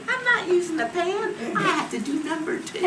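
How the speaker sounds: very high retold protest; desperate refusal. Woman in labour refusing the pan, desperate protest. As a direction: squeal a mock-desperate refusal.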